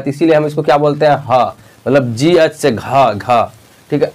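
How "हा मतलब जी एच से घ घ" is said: घ drawn out with a breathy h after the g; slow aspirated gh demo. Shown as a demonstration. Teacher showing pupils the h in घ. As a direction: slowly sound ख-style breath in घ. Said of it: "यहाँ पर लग रहा है इसमें कि हा भी".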